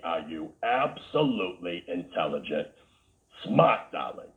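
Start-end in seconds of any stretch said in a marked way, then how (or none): 3.5-4.3 Boston smart with no R, said smaht; a hint of a Boston accent on smart, the R dropped. Shown as a demonstration. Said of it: "as they say up here in Boston".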